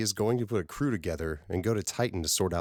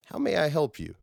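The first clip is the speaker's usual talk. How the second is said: a lightly voiced woman, higher and louder; polite offer, pitched up; Martha's voice; 9 semitones higher, 4 dB louder than usual. Martha Wax greeting Johnny at his desk, lightly voiced.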